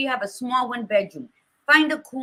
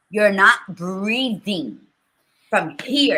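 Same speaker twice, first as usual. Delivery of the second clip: slow, emphatic mock telling-off; retold scolding; 2 semitones lower, 6 dB louder, slower than usual. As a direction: spell it out forcefully to a stubborn son. Scolding her son, retold.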